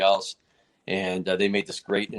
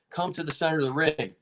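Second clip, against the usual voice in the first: imitating a referee repeating himself, higher; mildly insistent, pitched-up command; insistent order; 5 semitones higher than usual. Referee calling the stubborn fighter to center again, insistent.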